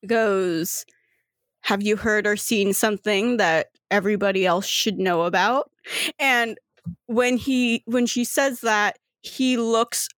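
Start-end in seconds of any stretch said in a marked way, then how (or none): 1.6-5.7 stern and calm. Acted. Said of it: "very, like, stern, calmly just goes".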